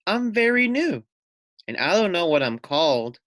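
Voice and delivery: a hint of a timid little lamb; small lamb voice.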